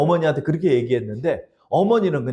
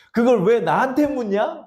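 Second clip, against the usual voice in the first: God's reply, slower; 7 semitones higher than usual. Retold or imitated. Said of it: "그러더래요".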